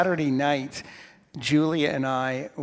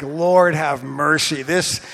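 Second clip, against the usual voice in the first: exasperated cry; 8 dB louder, slower than usual. Retold or imitated. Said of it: "I'm like".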